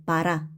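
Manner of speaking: 빠라 with first o said as a; Russian 빠라, unstressed o opened to a. Shown as a demonstration. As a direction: say 빠라, stress on the final a. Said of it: "강세 없는 오는 아로 읽는다".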